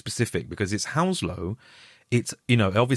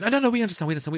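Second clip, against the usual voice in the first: higher-pitched hurried reassurance; hasty placating; 10 semitones higher, much faster than usual. Retold or imitated. Casting team backing down after the actor's apology, hastily placating. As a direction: imitate flustered people smoothing things over. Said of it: "And they went".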